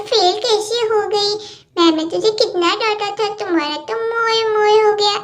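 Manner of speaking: lightly voiced bickering kids, getting cross; squabbling little girls. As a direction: play two little girls fighting over a toy set. Cartoon kids quarrel over toys.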